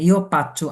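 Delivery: "পাচ্চো" with a P in place of F; wrong P sound. Shown as a demonstration. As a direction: mispronounce "পাচ্চো", opening on a P. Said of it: "ইও পাচ্চো বলি না". ("পাচ্চো"-তে ফ-এর বদলে প উচ্চারণ)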